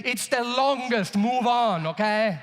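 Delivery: loud, drawn-out, dismissive answer; very confident. Retold or imitated. Man answering a "stupid" swimming question, confident and dismissive. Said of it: "very confident when he gives".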